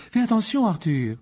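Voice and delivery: high-pitched motherly warning; warning wife. Acted. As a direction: caution your husband in a high voice. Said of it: "avertit Madame Weasley". (mise en garde aiguë)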